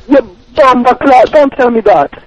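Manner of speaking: angry Jamaican patois. Acted. Caller's angry patois retort.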